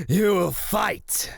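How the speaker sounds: loud, high, drawn-out cry of delight; gloating triumphant shout; exultant. Acted. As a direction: crow it slowly, relishing every word. Exults that the prey will fight.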